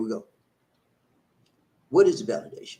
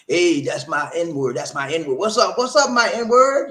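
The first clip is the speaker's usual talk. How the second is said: mock street greeting; 2 semitones higher, 5 dB louder than usual. Friends greeting each other with the N word, loud and breezy. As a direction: hype it up like greeting a buddy.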